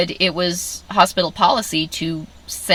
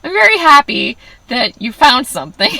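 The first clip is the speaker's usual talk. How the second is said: crying while happy; 9 semitones higher, 7 dB louder than usual. Retold or imitated. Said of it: "I was just bawling".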